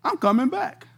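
surprised to hear himself agree, chuckling; laughing surprise. Retold or imitated. Preacher laughing as his mouth says he'll return. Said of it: "Came out of my mouth".

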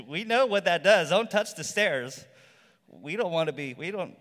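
put-on the old monkeys shout the newcomer off the stairs, loud warning.

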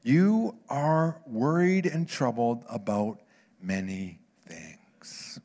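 slow, with the last word falling to a whisper; slow gentle rebuke. Acted. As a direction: ease it out slowly, fade into a whisper. Quoting Jesus to Martha.

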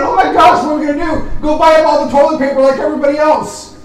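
a hint of a panicking shopper; mock panic. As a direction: play a frantic hoarder, hammed up. Mocking panicked toilet-paper buyers.

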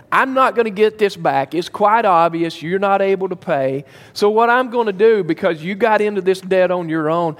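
a hard master laying down the debtor's fate; stern master. Acted.

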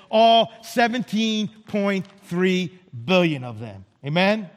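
slow, weighty preacher's proclamation; emphatic preaching. Real, not acted. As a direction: proclaim it to the congregation, drawing out the key words. Preaches God's grace to congregation.

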